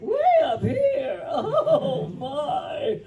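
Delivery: very high, loud, laughing character voice. Shown as a demonstration. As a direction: shoot way up into a high, laughing yell. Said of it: "East Kai was easier".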